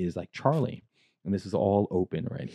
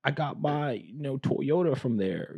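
higher, slower put-on dude voice; voicing the check-in guy; 5 semitones higher, slower than usual. Check-in guy recognising the car salesman, in a higher, slow dude voice. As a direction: play the excited guy, drawn out.

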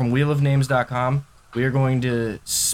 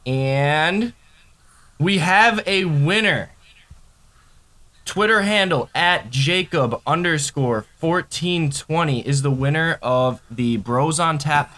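hyped giveaway announcement; 3 semitones higher, slower than usual. Real, not acted. Spinning the giveaway wheel.

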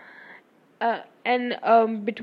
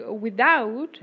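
slow British-accented "without"; attempted British accent; 4 dB louder than usual. Shown as a demonstration. Student showing teacher a newly cracked word, British accent. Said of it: "I've cracked a few other words".

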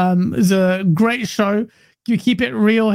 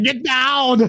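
higher, quick mock impression; half-hearted impression; 5 semitones higher than usual. Shown as a demonstration. Guest attempting an impression on request, half-hearted put-on voice. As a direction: throw out a token impression. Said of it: "not that good at impressions".

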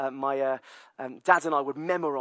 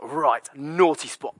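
stern mum; 5 dB louder, slower than usual. Retold or imitated. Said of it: "And she's like".

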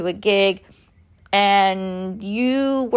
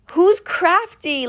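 mock puzzled guys; 9 semitones higher, slower than usual. Guys mocking the girl's question.

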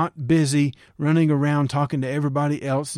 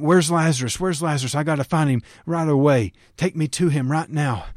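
frantic; faster than usual. Pretend. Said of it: "a nervous wreck".

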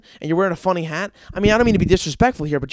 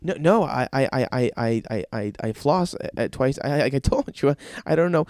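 lower, halting, defensive patient; flustered stammer; 5 semitones lower than usual. Acted. Patient defending flossing to an angry dentist, flustered acted stammer. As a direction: stumble through a feeble defence.

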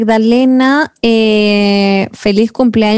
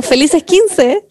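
creepy slow voice; 5 semitones higher, much slower than usual. Acted. Mock creepy music.

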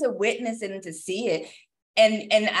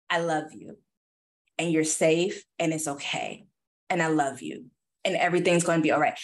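tender reassurance; 3 semitones lower than usual. Retold or imitated. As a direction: soothe a scared child. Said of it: "I just remember telling her".

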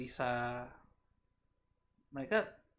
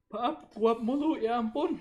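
yawning through the words; sleepy, slow yawn while talking; nodding off; 10 semitones higher, 11 dB louder, much slower than usual. Real, not acted. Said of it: "Ya hari ini aku ngantuk banget".

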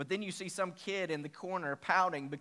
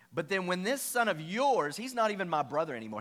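mild retold anger; 3 semitones higher, 6 dB louder than usual. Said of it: "the older brother became angry".

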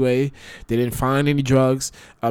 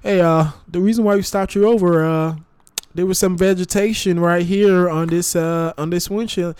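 higher, mock Midwestern cop; Midwestern accent; 5 semitones higher than usual. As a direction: keep the Midwestern cop twang going. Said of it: "Midwestern accent".

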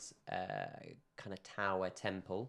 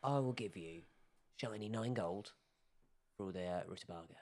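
dwarf haggler; 6 dB quieter than usual. Acted. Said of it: "he goes".

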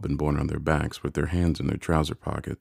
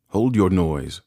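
loud, higher angry cry; terrible voice; 4 semitones higher, 6 dB louder, slower than usual. A narrator's reading. Convict startles a crying boy, terrible loud cry. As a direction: cry out to silence someone. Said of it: "cried a terrible voice".

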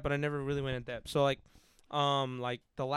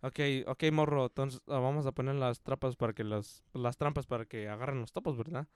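put-on low-key older coworker's Spanish, tagged with a questioning verdad; Don Verna; 3 semitones lower, 4 dB quieter than usual. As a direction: imitate a quiet field hand giving instructions. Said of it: "at the end of every sentence".

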